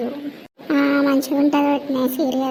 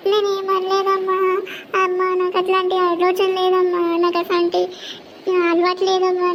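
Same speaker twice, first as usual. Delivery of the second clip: put-on higher girl's voice, mildly tearful pleading; pleading daughter; 4 semitones higher than usual. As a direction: beg her mother to believe her. Daughter begging mother.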